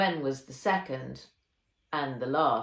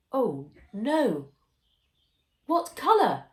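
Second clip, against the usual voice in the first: higher, louder cry of alarm; alarmed surprise; 7 semitones higher, 6 dB louder than usual. A narrator's reading. Nat dreading her friend's surprise, alarmed and higher. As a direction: squeal of dread.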